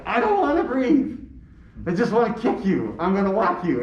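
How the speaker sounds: high-pitched imitation of a tantrum; mock child tantrum. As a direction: protest like an angry little kid. Imitates his daughter's angry tantrum.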